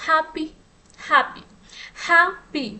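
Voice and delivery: हैप्पी said separately, each time as a distinct teaching example; careful pronunciation demo. Shown as a demonstration. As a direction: pronounce हैप्पी clearly for listeners, pausing between repeats. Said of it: "मैं pronounce कर रही हूँ".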